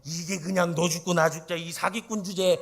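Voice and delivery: loud, brash tirade, laughing at the end; mock fierce scolding. An imagined fierce Leah scolding Jacob, loud mock tirade. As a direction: hurl abuse like a fierce market woman. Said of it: "중국 여인이었으면".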